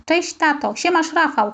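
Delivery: high cheerful call across the pitch. Acted. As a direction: greet dad and Rafał from afar. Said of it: "krzyknąłem". (wołając, wyżej i radośnie)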